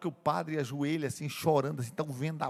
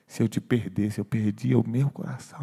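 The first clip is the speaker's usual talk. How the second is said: choked-up tenderness; 6 semitones lower, 4 dB louder than usual. Acted. Addresses lost Wolfgang, overcome with emotion.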